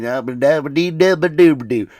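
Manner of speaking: hammed-up imitation of a showy voice; over-the-top tour guide voice. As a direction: put on a big showy voice, all gibberish. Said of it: "this guy's got the voice".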